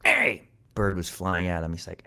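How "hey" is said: sudden high-pitched yelp; startled cat. A narrator's reading. Cat startled by a bird mid-mutter, high cross yelp. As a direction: burst out in a squeaky shout.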